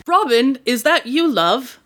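put-on British accent, lifted pitch on the name; tentative British lover's call; British male voice. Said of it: "differentiate my male voices".

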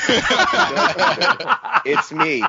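high, slow, breaking into laughter; laughing through the line. Retold or imitated. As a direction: try to say it and crack up. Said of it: "running gag repeat".

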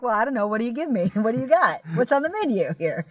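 mock-casual ordering, lightly acted; offhand bar customer, lightly voiced; casual happy-hour customer. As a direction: chat as if to a waiter. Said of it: "talks to him like a waiter at, at happy hour".

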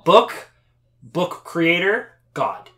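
slow, high mocking sing-song. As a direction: drag out creator like a smug gotcha. Mocking his argument.

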